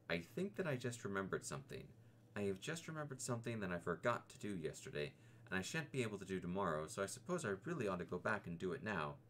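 a lightly voiced timid piglet, hurrying to get away; a scared little piglet inventing an errand; nervous Piglet making excuses.

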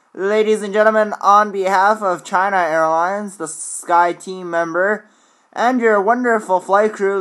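airline captain PA voice; airport announcement. Acted. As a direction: welcome passengers like a captain. Pilot PA announcement.

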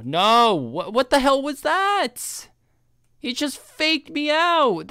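难以置信地抗议; indignant disbelief. Real, not acted. NPC walked away unexpectedly.

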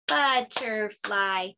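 "butterfly" slowly, syllable by syllable; clapped syllables. Shown as a demonstration. Teacher clapping bug names for the kids, slowly. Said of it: "clap out syllables".

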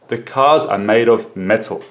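teacher's model answer, dropping on METAL; falling answer intonation. Shown as a demonstration. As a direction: voice falls on METAL.

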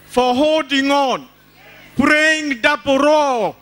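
ordinary delivery

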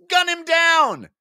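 high, loud, slow command; scream. Acted. Stables ordering the squad to fire, loud scream. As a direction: bellow the order to shoot. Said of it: "screamed Stables".

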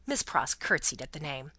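ordinary delivery

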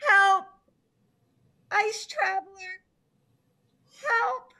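loud call for help. Acted. Turtle calling to Ice Traveler, loud. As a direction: shout for rescue.

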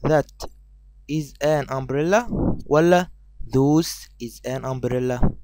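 each word of "umbrella" choices stretched; teacher slowly reads the umbrella question; very slow quiz read. Shown as a demonstration. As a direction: read the options very slowly and clearly. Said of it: "هنقول".

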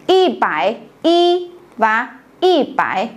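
"y bải y" and "y bải" said slowly, spaced apart; slow model reading. Shown as a demonstration. Teacher showing the class two ways to read it, slow. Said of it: "chúng ta sẽ có hai cách đọc".

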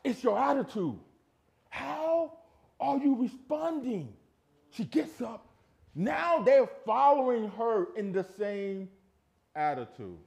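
high, loud pulpit delivery; forceful preaching. Acted. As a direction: drive each phrase at the congregation.

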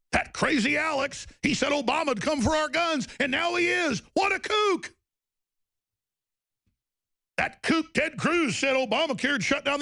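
climbing whiny ridicule of a critic; mocking critic. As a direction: parody a scoffing critic, rising to a squeak.

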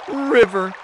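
rooster calling. A narrator's reading. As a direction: call out to the river, pitched high. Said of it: "he asked".

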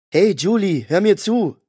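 yelling at Julie over the helicopters; urgent shout. A narrator's reading. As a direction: snap her out of it. Shouting to snap her out.

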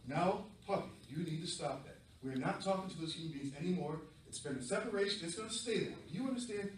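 stern mom. Acted. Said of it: "whose mom sounds like that".

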